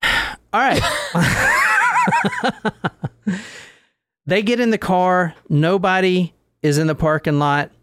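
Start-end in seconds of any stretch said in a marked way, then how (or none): 0.9-3.4 a high whooping burst of laughter. Real, not acted. Host laughs loudly mid-story.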